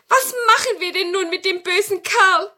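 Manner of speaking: high, loud witch voice; witch asking. Acted. Witch asks grandmother about the captured wizard, high witch voice. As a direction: ask in a high-pitched witch voice. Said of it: "fragte die Hexe Tannenmütterchen".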